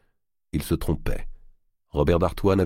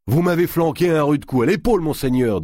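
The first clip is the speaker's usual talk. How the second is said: gruff thief voice; 12 semitones higher, 5 dB louder than usual. Acted. Thief complaining.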